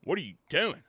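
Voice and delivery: mock-baffled God, half laughing; God's exasperated dude. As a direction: play God shaking his head at humanity. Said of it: "God probably looks at us like".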